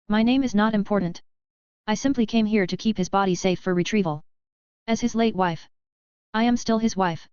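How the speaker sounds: stern. Acted. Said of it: "A I sternly spoke".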